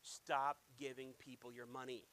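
lightly voiced low, slow command; a hint of a solemn divine order; voice of the Holy Spirit. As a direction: lay it down slowly and deeply, word by word. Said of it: "the Holy Spirit was like".

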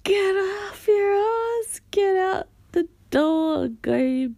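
slow, high, bossy urging; bossy self pep talk. Pretend. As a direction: push yourself out like a bossy friend. Mock-urging herself out the door.

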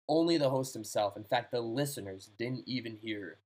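measured spooky-tale reading; story narration. Acted. Host reading a ghost story to a guessing friend, story narration. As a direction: tell it like a radio mystery, pausing between phrases.

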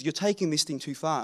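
a soft, muttered warning from Peter; quiet Peter. Acted. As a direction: say it quietly, almost to himself. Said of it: "Peter says".

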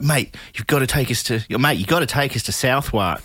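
urgent cabbie plea, Southwark said as "south-wark"; mispronounced Southwark. Retold or imitated. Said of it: "we're like".

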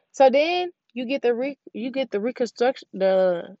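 tripping over a word and restarting; stuttering. Real, not acted. Podcaster explaining the reconstruction stage to listeners, stuttering. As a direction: stumble on a long word, break off, retry. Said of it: "yeah, I'm stuttering".

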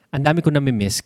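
usual speaking voice

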